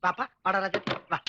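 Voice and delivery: low, soft call to a little one; coaxing a child. Acted. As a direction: gently coax the child closer. Coaxing a small child over. (குழந்தையை மெதுவாகக் கொஞ்சி அழைத்தல்)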